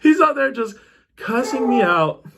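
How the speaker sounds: high-pitched, laughing through the words; real laughing. Real, not acted. Storyteller amused at being cussed out while passed out, laughing. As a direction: crack up while telling it.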